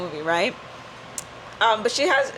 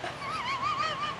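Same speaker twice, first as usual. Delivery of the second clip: imitated meme gasp; 11 dB quieter than usual. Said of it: "He's like".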